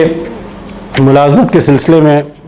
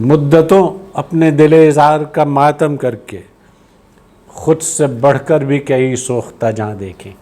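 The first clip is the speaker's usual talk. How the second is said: slow recital, raised start settling down; poetry recitation; 3 semitones higher, slower than usual. Acted. Host repeating the couplet worth hearing, slow poetry recitation. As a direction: recite the couplet in long, measured phrases.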